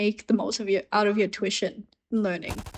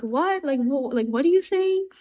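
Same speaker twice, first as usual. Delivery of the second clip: confused what; 4 semitones higher than usual. Retold or imitated. Girl mishearing, laughing confusion.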